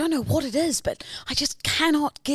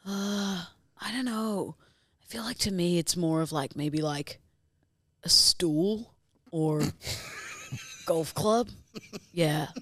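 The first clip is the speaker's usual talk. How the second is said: lightly voiced low vocal-fry influencer; 8 semitones lower, 7 dB quieter than usual. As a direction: lower and quieter, vapid and musing. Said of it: "you're an influencer discussing baby names".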